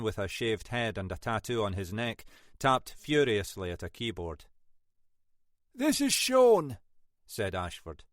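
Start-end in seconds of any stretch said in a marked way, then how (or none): 5.7-6.8 slower, higher copper voice; slow introduction. Acted. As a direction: present the young tech slowly. Ashford introduces Sean.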